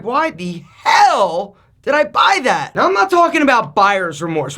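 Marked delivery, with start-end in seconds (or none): 0.0-2.7 slow, drawn-out exasperated regret; a slow why-did-I sigh of a question; delayed regret. Retold or imitated. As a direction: let the regret sink in slowly. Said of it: "you're like".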